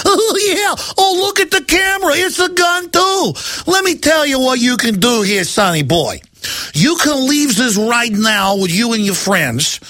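cartoonish crooked cop mocking a kid; mock bully cop. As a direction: gloat over the camera like a cartoon cop. Mocking cops threatening protester.

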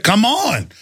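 rising, shouted taunt with a tearful edge; retold angry challenge. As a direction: goad the cowards into a fight. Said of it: "and I said".

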